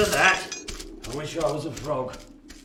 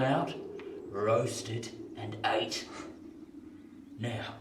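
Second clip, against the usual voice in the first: quiet, lower menacing threat; low menace; 3 semitones lower, 5 dB quieter than usual. Acted. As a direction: drop the voice to chill him.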